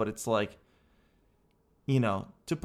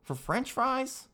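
mock disgust; 7 semitones higher, 4 dB quieter, much slower than usual. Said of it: "and I'm like".

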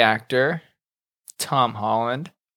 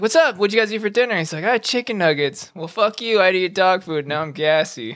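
voicing the dogs chatting, higher; 5 semitones higher than usual. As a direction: play the dogs gossiping. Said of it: "they're like".

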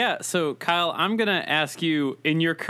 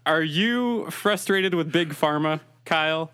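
Bane voice. Acted. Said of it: "in the Bane voice".

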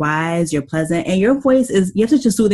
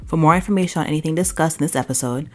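podcast outro read; 2 semitones lower, 5 dB quieter than usual. Acted. Host to listeners after the interview, podcast outro read.

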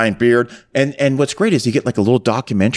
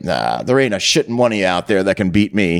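lightly voiced cocky champion; 5 semitones lower than usual. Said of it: "he's like".

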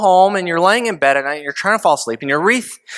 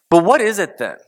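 whispered question; 3 semitones higher than usual. Real, not acted. Preacher's hushed question.

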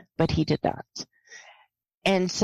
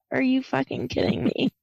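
voiced, slightly raised disbelief; mild retold exasperation; 4 semitones higher, faster than usual. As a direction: say it aloud, a little higher, incredulous. Repeats the reaction, more voiced.

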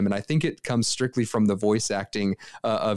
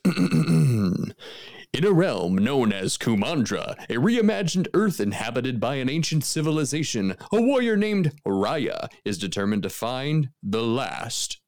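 movie trailer voice; 2 semitones higher than usual. Pretend. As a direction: announce it like a film trailer. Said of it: "I'm gonna use my movie voice".

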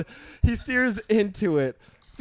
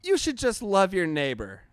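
mock sign-off; 4 semitones higher than usual. Shown as a demonstration. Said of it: "That wasn't better".

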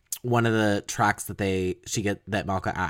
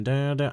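guitar imitation; 5 semitones higher than usual. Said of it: "the guitars are sort of kinda".

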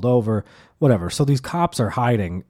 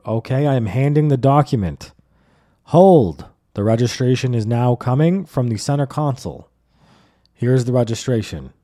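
robotic compliance; 4 dB louder than usual. Retold or imitated. Driver narrating his moves to cops, mock-formal announcing. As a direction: announce each move deliberately.

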